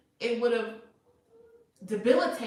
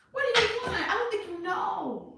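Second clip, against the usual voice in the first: laughing exasperation; 11 semitones higher, 4 dB louder than usual. Real, not acted. Exasperated at indecisive Taurus.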